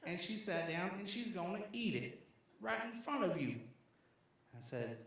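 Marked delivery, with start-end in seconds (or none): 0.0-3.6 impression of Sheik. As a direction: act out a scandalized man, pitched up and stretched out. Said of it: "this is a great impression".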